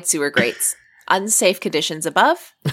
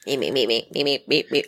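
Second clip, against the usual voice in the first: squeaky little crab voice; crab impression; 7 semitones lower, 5 dB quieter, faster than usual. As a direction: chirp it like a tiny crab. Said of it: "I'm doing a very good crab impression".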